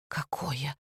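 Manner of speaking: hushed, low startled question; frightened. A narrator's reading. Frightened friend asks Майя what happened, hushed. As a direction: shrink back and ask very softly. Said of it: "испугалась я".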